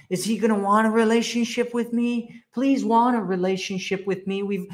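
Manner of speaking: high, pleading mock voice; needy girlfriend. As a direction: beg him like a clingy girlfriend. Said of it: "you're like".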